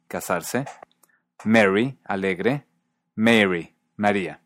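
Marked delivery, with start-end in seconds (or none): 1.4-2.0 "Mary" said as merry, short open e; distinct vowel. Shown as a demonstration. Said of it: "se mantienen distintas". 3.2-3.8 "Mary" with a longer, closer "mair" vowel; distinct vowel. Shown as a demonstration. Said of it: "se mantienen distintas".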